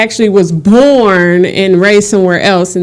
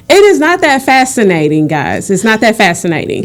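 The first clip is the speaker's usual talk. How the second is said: laughing protest. Retold or imitated. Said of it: "I'm like".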